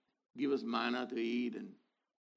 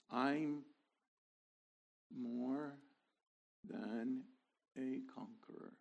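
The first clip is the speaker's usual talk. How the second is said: soft modelled prayer; 3 semitones lower, 7 dB quieter, slower than usual. Shown as a demonstration. Quoted prayer for listeners to say.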